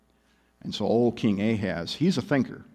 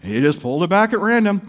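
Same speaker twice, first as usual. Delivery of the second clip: higher, mock-casual sarcasm; sarcastic; 5 semitones higher than usual. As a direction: read it as if chance explained everything. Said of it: "I think it's sarcastic".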